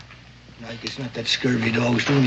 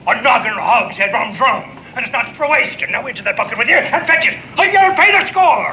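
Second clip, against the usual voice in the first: mock scolding; 8 semitones higher, 3 dB louder, faster than usual. Sailor keeps up fake scolding.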